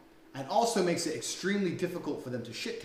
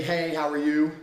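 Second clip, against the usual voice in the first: loud, chirpy "Hey, how are you?" with a lift on "you"; typical opener; 7 dB louder than usual. Retold or imitated. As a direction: call it out like an eager guy. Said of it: "a lot of men say".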